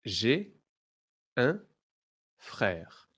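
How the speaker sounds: slow, word by word French model; slow model phrase. Shown as a demonstration. Teacher modelling for the class, slow and separated. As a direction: say it slowly for students to repeat. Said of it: "Now repeat after me".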